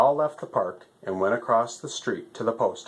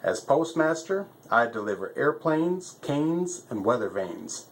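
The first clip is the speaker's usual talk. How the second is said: lightly voiced fussy postmaster stork, pitched up; a busy bird, a bit higher than the narrator; 5 semitones higher than usual. Stork's long rhyming list.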